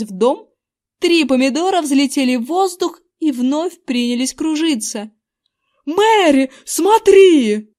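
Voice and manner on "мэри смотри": loud, higher yell. A narrator's reading. Husband yelling for his wife to look, loud yell. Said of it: "завопил мистер Эвандер".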